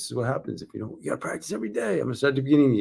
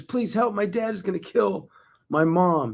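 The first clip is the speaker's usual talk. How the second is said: a hint of a pleading child, higher; lightly voiced scared boy; 8 semitones higher than usual. Boy calling police about his father, mildly pleading. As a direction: plead like a frightened kid on the phone.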